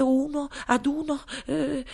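ordinary delivery, nothing marked

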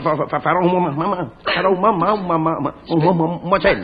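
stuck on the first syllable; a boss who keeps stammering; stuttering. Acted. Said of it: "se cacagliate con questo modo".

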